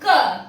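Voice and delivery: a short, crisp isolated "क" sound; k sound demo. Shown as a demonstration. Teacher showing students how C sounds, isolated crisp "क". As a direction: sound out "क" like the start of cable. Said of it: "तो सी का pronunciation हम करेंगे".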